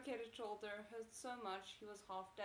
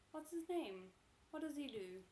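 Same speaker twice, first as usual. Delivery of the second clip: raised, pressing interrogation; demanding voice; 5 semitones higher, 5 dB louder than usual. Acted. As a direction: demand the answer.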